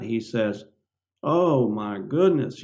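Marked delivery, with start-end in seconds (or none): 1.2-2.6 slow, drawn-out mock wonder; imitating doctor's excitement. Doctor gushing over a rare mole, slow mock delight. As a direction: savor each word like a delighted doctor. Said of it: "the guy got all excited".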